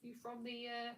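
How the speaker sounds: hammed-up mock Australian accent; playful fake Aussie, lifting each "mate"; bad Australian accent. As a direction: tease in a badly faked Australian accent. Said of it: "do a really bad accent".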